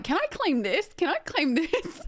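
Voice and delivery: high-pitched, pestering mock question; cheeky asking. Streamer retells asking accountant about claims, cheekily hopeful.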